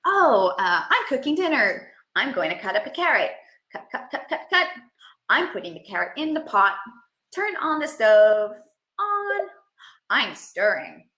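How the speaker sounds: lively narration of your own cooking; sing-song kitchen running commentary; self-talk demo. Shown as a demonstration. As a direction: narrate each step to the child playfully. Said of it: "it might look like".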